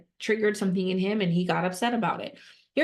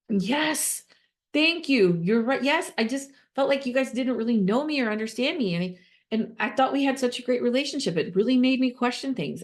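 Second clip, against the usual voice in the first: upset donor; 5 semitones higher than usual. Acted. Role-play as upset donor.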